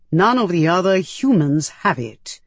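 deliberate creature voice, insistent; firm alien. A narrator's reading. Medus comparing her to other humans, firm. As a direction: press the point as an alien interrogator. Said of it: "it asked firmly".

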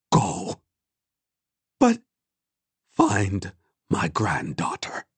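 put-on slow, resigned old woman's voice; calm. A narrator's reading. Old woman sends the boy away, calm. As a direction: give a last request slowly, without raising the voice. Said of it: "she said calmly".

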